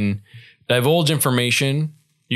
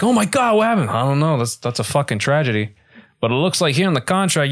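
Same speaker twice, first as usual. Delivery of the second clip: mock mob lawyer; 3 semitones higher than usual. Acted mob lawyer scene.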